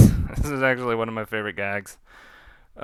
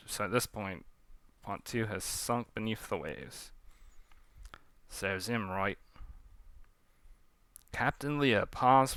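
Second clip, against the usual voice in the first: story narration; 9 dB quieter than usual. A narrator's reading. Narrator telling of Leah watching her ship leave, hushed narration. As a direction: close the tale quietly.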